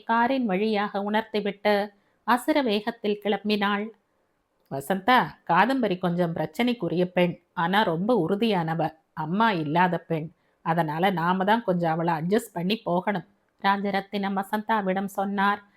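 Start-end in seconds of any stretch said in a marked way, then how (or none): 4.7-13.3 lightly voiced father, a bit lower, earnest; a hint of a gentle older man asking a favour; fatherly voice. Father asks his new wife to care for daughter, gently earnest.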